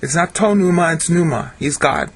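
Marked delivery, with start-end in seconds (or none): 0.0-0.9 to stressed, as the wrong reading. Shown as a demonstration. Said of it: "There is no definite article". 0.9-1.5 pneuma said bare and firm; stress on PNEUMA. Shown as a demonstration. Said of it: "There is no definite article".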